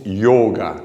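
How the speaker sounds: yoga slow, long closed O; correct yoga. Shown as a demonstration. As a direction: stretch the O in yoga. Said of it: "escribimos yoga con este acento circunflejo".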